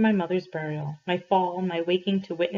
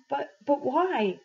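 higher and slow, stuttering in disbelief; a scared boy begging for a reason; stammering plea; 8 semitones higher, slower than usual. Acted. Frightened boy pleads with priest.

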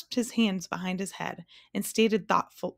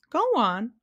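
loud, higher royal command; 5 semitones higher, 5 dB louder than usual. A narrator's reading. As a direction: order him to continue. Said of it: "commanded the king".

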